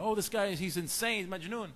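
high, mock-scandalized onlooker; mock bystander alarm. People on the train judging the dhikr man, mock alarm. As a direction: voice a gossiping passer-by. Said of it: "People are going".

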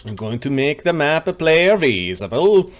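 light mock Swedish accent; playful Swedish-accented GM voice. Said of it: "Nice Swedish accent".

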